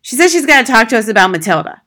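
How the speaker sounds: loud, quick dismissive father; brusque father. Acted. Husband telling his wife about the teacher, brusque. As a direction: announce it loudly and offhandedly.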